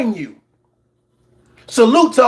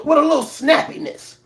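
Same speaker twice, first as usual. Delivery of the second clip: snappy; 3 semitones higher than usual. Shown as a demonstration. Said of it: "say it with a little snappiness".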